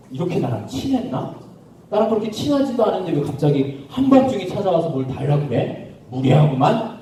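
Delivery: mild grumbling annoyance; irritated. Acted. Woken man resenting a midnight request, mildly irritated. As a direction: mutter as if put upon. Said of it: "짜증난 상태에서".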